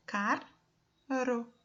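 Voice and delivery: CARRO broken into two beats, car, ro; Carro split between its two Rs; syllable by syllable. Shown as a demonstration. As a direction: sound out Carro one syllable at a time. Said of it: "quantas vezes eu abro a minha boca".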